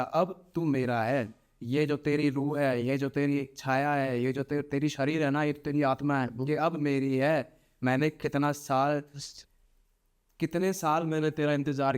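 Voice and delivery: a lightly voiced claiming spirit; spirit in a dream. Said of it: "इसको सपने आ रहे हैं".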